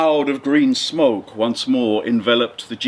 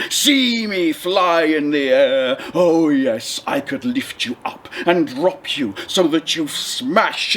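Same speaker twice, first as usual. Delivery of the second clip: a slow, lightly voiced booming genie; menacing ancient spirit drawn out slowly; 2 semitones higher, slower than usual. Genie threatening the fisherman who freed him, slow and grand.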